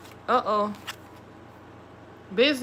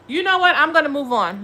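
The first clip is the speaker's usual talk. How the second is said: fed up; 3 semitones higher, 3 dB louder than usual. Real, not acted. Fed-up exit.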